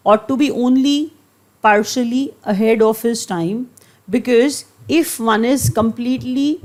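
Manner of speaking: very slow, pausing between phrases; slow dictation reading. Shown as a demonstration. Teacher reading the quote to her class, slow and broken into pieces. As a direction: spell the sentence out slowly in chunks.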